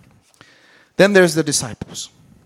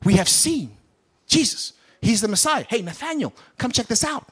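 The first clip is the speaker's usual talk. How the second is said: high, eager calling to a friend; lightly raised eager calls; excited disciples; 5 semitones higher than usual. Retold or imitated. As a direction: voice the thrilled disciples. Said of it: "These are the same ones that said".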